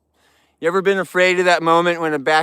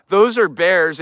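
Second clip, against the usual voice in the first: exasperated; 3 semitones higher, 5 dB louder, slower than usual. Real, not acted. Repeats the answer, exasperated.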